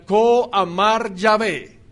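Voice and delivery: slow, weighty prophetic announcement; a hint of the thundering prophet, drawn out; solemn prophet proclamation. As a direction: declare it like a prophet of old, slowly. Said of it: "cuando el profeta decía".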